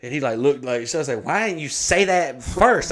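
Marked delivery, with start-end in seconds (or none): 1.2-2.9 high, loud, drawn-out complaint; mock protest. Customer to bartender about the open bar, mock indignant protest. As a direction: wail it in comic indignation.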